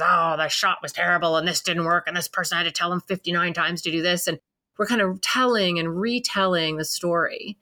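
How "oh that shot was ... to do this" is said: complaining dad. Retold or imitated. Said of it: "that dad that comes in and goes".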